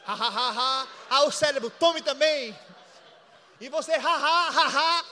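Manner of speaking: a preacher acting out laughter in the spirit, building up. Shown as a demonstration. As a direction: let the laughter take over the words. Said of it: "Você começa pela fé".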